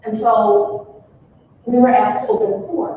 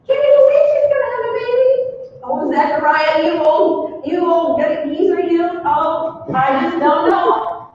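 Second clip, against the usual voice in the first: gossiping townsfolk; 5 semitones higher than usual. Retold or imitated. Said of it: "I heard the whispers".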